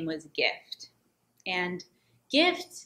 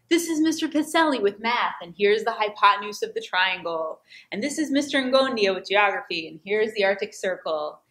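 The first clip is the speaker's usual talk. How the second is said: a hint of a droning teacher showing off a lesson; mock teacher voices; 2 semitones higher, 4 dB louder than usual. Student Gift mimicking the math and geography teachers in class, lightly mock lecturing. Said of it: "he starts to do impersonations of the teachers".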